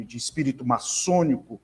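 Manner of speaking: normal talking voice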